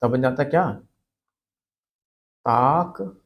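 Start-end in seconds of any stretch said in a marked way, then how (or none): 2.4-3.2 ताकनीक split, long taak, then neek; wrong pronunciation. Shown as a demonstration. Teacher demonstrating the wrong word, ताकनीक broken as taak... neek. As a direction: draw out ता in ताकनीक and pause before नीक. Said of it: "जो गलत है".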